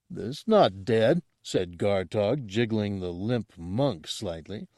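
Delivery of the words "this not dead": slow Gamorrean. Acted.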